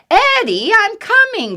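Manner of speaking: loud, high call from afar. Acted. Mom calling to her son, loud. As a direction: call out as you run back. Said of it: "called Mom".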